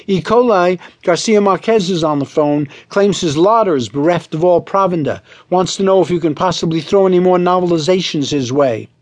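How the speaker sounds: high, lilting secretary's trill. Acted. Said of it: "pushed her head in and trilled".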